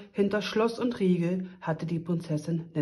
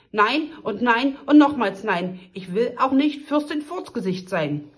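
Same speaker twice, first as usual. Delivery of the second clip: trotzige Weigerung; 4 semitones higher, 5 dB louder than usual. Acted. Prinzessin weigert sich.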